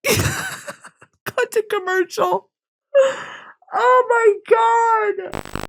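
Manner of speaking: high, slow tearful squeak; real weepy, drawn-out high voice; emotional. Real, not acted. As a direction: squeeze it out through tears and laughter. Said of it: "it's just gonna make me so emotional".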